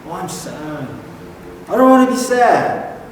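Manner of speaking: high, fast whine about being angry; whiny self-talk. Retold or imitated. Preacher imitating a listener's whiny self-talk. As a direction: complain like someone fed up with their own anger. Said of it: "Have you ever done that?".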